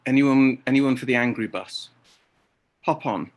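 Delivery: loud, inviting call from a mock devil bus driver; a devil hawking rides on the angry bus. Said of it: "the devil will pull up next to you and say".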